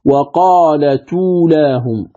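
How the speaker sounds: "وقالت أولاهم" joined slowly as wa-qaala-tuulaahum; slow, run-together "وقالت أولاهم"; transferred hamza vowel. Shown as a demonstration. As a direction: link t straight into uu, no glottal stop. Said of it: "فتقرأ بعد النقل".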